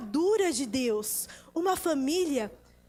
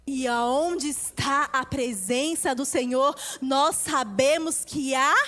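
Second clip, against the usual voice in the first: preaching declaration. Acted. Preacher declaring blessing over families, fervently. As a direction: declare it with rising conviction.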